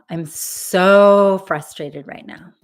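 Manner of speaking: loud, drawn-out venting; voiced frustration. Shown as a demonstration. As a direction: lean long and hard into SO. Leading tapping phrases about frustration.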